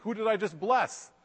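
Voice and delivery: a hint of a startled old father; shocked old man. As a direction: voice jumps high in mock shock. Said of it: "Isaac is all surprised and, and shocked".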